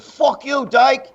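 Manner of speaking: retold angry retort. Driver cursing back out the window, retold angry retort. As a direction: throw the insult back, re-enacting it.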